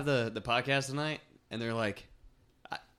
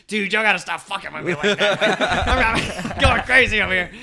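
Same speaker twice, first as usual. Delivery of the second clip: frazzled laughing plea; 6 semitones higher, 8 dB louder than usual. Retold or imitated. Russell voiced, relieved and frazzled.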